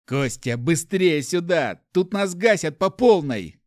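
hoarse, loud urgent call. Acted. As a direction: rasp out a call for help. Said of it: "хрипло произнёс Рэмбо".

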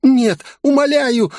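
high, tearful begging cry. Acted. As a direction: cry out through tears for mercy. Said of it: "слёзно воскликнула демонесса". (высокий слёзный возглас мольбы)

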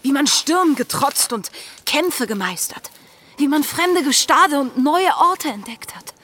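fierce yearning; passionate outburst. Acted. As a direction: pour out her longing for adventure. Anne passionately protests her future.

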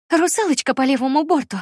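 high, loud sailor's call; playful shout. A narrator's reading. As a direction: call it out like a lookout. Playful call toward horizon.

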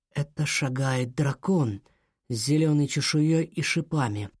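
ordinary delivery, nothing marked

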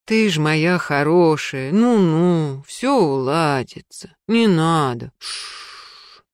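put-on calm her like a child; soothing. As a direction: cleaner hushing a crying woman. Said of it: "пришёптывая".

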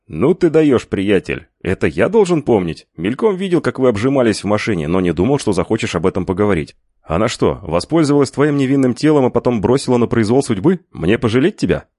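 loud, high, teasing friend voice; mocking buddy. A narrator's reading. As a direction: rib him loudly on the phone. Лукас насмехается по телефону. (насмешливый громкий голос друга)

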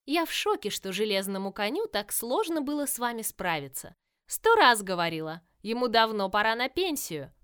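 loud, gleeful taunting villain voice; mock the heroes with cheerful menace; playful villainess. Villain Virus speaks.

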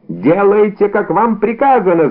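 a mock shout, pitched high; shouted order. A narrator's reading. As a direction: snap the order at the prisoner. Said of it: "закричал комиссар".

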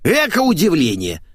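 high, mocking snort of a line; scoffing. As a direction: brush off his outrage. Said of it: "хмыкнула поломойка".

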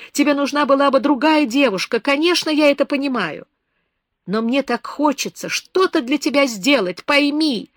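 high, loud, urgent outpouring; impassioned pleading. A narrator's reading. Beba pleads with lonely Herardo, loud and high. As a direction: pour out your heart, begging him to believe. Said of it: "крикнула она".

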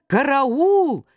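high, frantic yelling; panicked cry for help. Acted. Мурзилка, drowning in the stream, cries in panic. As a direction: cry out as if going under. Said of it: "закричал Мурзилка, захлёбываясь".

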